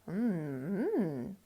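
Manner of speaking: low humming sniff; cow sniffing hum. Acted. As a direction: hum as you sniff the food. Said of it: "sniffed the cow".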